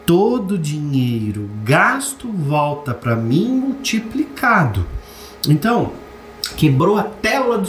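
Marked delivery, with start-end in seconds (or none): 0.0-4.9 slow, deliberate, each word weighed; slow affirmation. Shown as a demonstration. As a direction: lay the affirmation down slowly. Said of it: "Olha essa afirmação".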